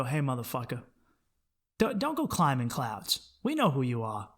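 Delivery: soft, knowing warning; gutter friends' voice. Retold or imitated. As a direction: murmur it like old friends pulling you down. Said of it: "and they go".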